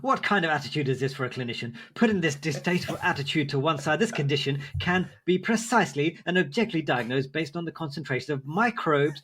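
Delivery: lightly hammed-up indignant clinician; appropriate commenter voice. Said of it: "Do the voice".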